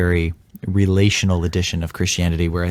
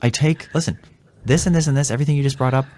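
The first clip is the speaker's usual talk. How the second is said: higher, pleading apology; earnest apology to wife, raised and pleading; heartfelt apology; 6 semitones higher than usual. Retold or imitated. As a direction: pour out a sincere sorry, voice lifted. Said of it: "and I say".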